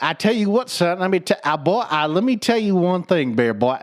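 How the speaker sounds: a dad lecturing like a cartoon rooster; a hint of a lecturing southern dad; dad as Foghorn Leghorn. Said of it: "he'd be like".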